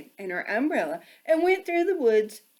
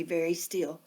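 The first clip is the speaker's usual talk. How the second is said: whisper; 4 semitones lower, 6 dB quieter than usual. A narrator's reading. Hushed for the still cat.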